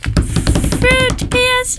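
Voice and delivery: high, drawn-out jingle-style call; segment title call-out. Acted. Host announcing the fruit PSA segment, high drawn-out call-out. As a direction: belt out the segment name, stretched long.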